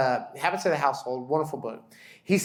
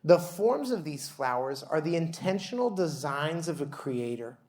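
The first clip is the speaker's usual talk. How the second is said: slow, solemn prayer voice; liturgical prayer reading. Acted. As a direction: read it as a devout responsive liturgy.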